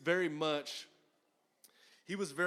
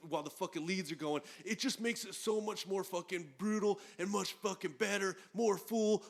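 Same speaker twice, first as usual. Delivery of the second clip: retold pitch for two guitars, rising higher at the end; campaigning rant; 4 semitones higher than usual. Imitating John arguing for a second guitarist, impassioned. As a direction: sell it hard, like a mild mock crusade.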